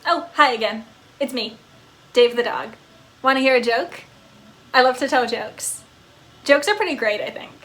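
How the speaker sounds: a happy pup who can't sit still; eager talking dog. Acted. Dog character speaking.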